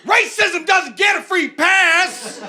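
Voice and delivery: high, slow shouted slogan with a laugh; bus slogan again. Retold or imitated. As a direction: bellow it through laughter like the whole bus.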